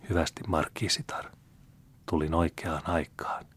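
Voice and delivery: a soft murmur to herself, whispered at the end; hushed inner thought; thinking to herself. Acted. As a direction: private thought said under the breath. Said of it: "ajatteli itsekseen".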